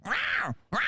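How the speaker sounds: high, yowling cat cry. Retold or imitated. Comic impersonating the girl at the glass, high cat yowl. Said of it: "she's going".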